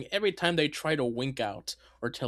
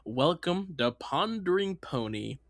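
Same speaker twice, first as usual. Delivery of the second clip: announcer voice. Acted. Announcer opening of show.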